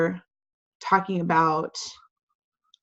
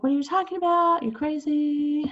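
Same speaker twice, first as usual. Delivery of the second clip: incredulous Lady Macbeth; 8 semitones higher than usual. Retold or imitated. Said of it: "Lady Macbeth is like".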